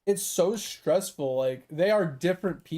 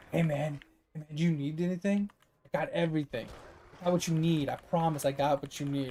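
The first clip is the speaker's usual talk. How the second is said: sketchy hustler; 2 semitones lower, 5 dB quieter than usual. Retold or imitated. Imitating pushy gas station dealer.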